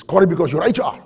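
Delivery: mildly worked-up imitation of an exasperated boss; upset boss. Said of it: "he gets really upset and says".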